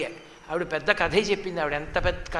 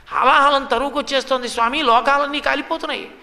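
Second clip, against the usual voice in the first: urgent plea; 5 semitones higher, 3 dB louder than usual. Acted. Gods report poison to Shiva.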